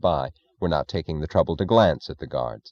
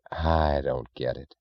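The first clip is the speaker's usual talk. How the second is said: helpless; 4 semitones lower, 6 dB quieter, slower than usual. Acted. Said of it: "in a tone of genuine helplessness".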